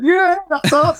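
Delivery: high, drawn-out "yeah"; retold group cheer. Everyone answers the shout from the car, mock cheering. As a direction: imitate a crowd happily answering a heckler. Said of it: "Everyone just went".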